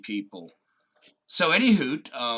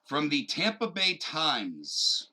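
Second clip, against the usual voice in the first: slow, authoritative seventies newsman; newscaster voice; slower than usual. Pretend. Podcaster citing the source for his news bit, newscaster voice. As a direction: announce it like an old-style news anchor. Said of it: "break out my newscaster voice".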